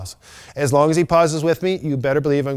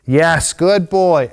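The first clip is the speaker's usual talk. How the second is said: slow, drawn-out, higher and louder praise; praise for dog; 4 semitones higher, 6 dB louder, much slower than usual. Real, not acted. Trainer rewarding her dog with slow excited praise. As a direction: stretch it out for the dog.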